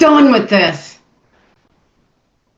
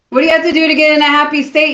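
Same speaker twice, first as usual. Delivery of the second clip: excited; 4 semitones higher, much faster than usual. Shown as a demonstration. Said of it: "Get excited with me for just a minute".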